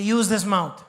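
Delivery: said out loud and firm; firm spoken declaration. Shown as a demonstration.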